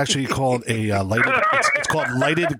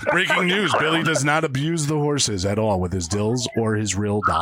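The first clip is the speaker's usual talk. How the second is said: newscaster voice; 3 semitones lower than usual. Pretend. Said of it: "sound like a newscaster".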